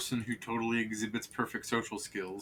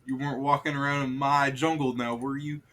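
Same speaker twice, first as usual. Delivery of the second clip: mock menacing; 4 semitones higher, 6 dB louder than usual. Wizard confronting explorer, mock threatening.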